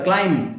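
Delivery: क्लाइंब ending on M, no B; silent B. Shown as a demonstration. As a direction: say क्लाइंब as "klaim", B left silent. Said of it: "बी नहीं बोला जाता".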